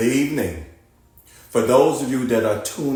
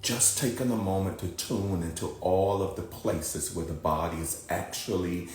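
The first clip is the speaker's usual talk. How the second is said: calm, softer guiding voice with long pauses; guided meditation; 8 dB quieter than usual. Acted. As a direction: ease them down into rest, unhurried.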